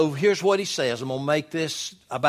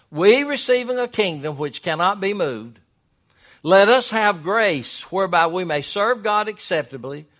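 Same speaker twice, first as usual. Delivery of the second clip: raised, declaiming Bible reading; emphatic scripture reading; 4 semitones higher, 6 dB louder than usual. Acted. Preacher reads Hebrews to the church, emphatic scripture reading. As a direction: read scripture out firmly to the congregation.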